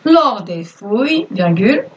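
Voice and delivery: slow, clear dictation voice; dictating. Acted. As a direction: read it out word by word for pupils. Teacher dictates to pupils.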